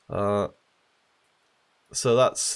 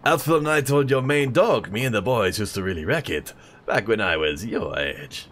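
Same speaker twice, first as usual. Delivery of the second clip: put-on French accent. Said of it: "how to do an old French accent".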